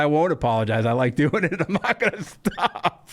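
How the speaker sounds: defiant with a laugh; laughing defiance, lightly mocked. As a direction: laugh off the demand. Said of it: "She's like".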